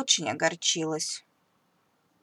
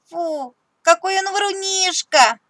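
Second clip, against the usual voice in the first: laughing; 10 semitones higher, 7 dB louder than usual. Acted. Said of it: "смеётся Тим".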